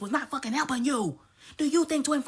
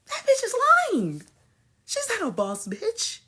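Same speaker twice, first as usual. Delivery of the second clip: much higher and louder yell; shouted; 8 semitones higher, 4 dB louder than usual. Real, not acted. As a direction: yell the accusation. Ranting outburst.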